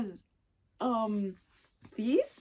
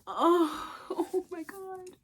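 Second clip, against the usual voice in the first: 1 teary laugh; 6 semitones higher, slower than usual. Real, not acted. Overwhelmed by signed books.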